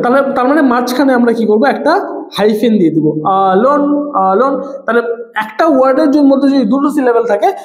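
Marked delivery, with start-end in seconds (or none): 3.5-4.6 "alone" drawn out as two separate syllables, a - lone; split into syllables. Shown as a demonstration. ("alone" দুই সিলেবলে ভেঙে, আ - লোন টেনে বলা)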